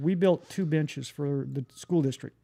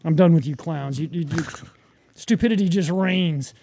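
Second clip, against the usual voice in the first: fed up; 4 dB louder than usual. Retold or imitated. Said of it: "finally got tired of fighting".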